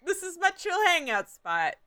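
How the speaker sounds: high, fast eccentric character voice; Fenchurch voice. Pretend. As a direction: play the laid-back eccentric NPC.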